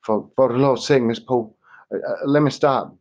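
a hunted man whimpering for shelter; frightened whimper. A narrator's reading. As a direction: whimper and stumble over the words in fear. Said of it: "changed to a frightened whimper".

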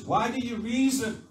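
acted exasperated challenge; challenging rebuke. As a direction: press them for an answer. Jesus voiced rebuking disciples.

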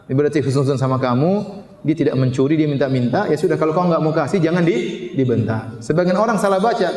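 normal talking voice

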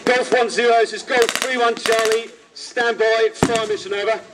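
steady clipped radio procedure; calm radio call for fire. Shown as a demonstration.

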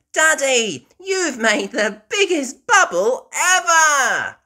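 high, loud laughing delight; laughing cry. Acted. Peppa amazed at Daddy's bubble, high laughing. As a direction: crow with delight. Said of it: "cries Peppa".

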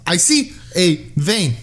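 put-on slow, clumsy Russian accent; bad Russian accent. Nurse finding a vein, badly done Russian accent. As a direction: announce it slowly in an attempted Russian accent. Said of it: "I can't do a Russian accent".

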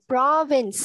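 "Province" ending on an audible s; final sound pronounced. Shown as a demonstration. Teacher asking for the missing ending, final sound pronounced. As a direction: finish "Province" with its closing hiss of s. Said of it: "Âm cuối đâu?".

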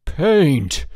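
"Paint!" shouted high and loud; "Paint!" burst out in outrage. A narrator's reading. George discovering the trick, "Paint!" shouted loud. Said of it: "then louder".

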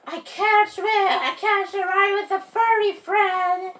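high, loud protest; distressed. Acted. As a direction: complain as you're carried off. Seed carried off by squirrel.

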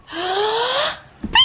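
playful peekaboo. Real, not acted. Hide and seek with child.

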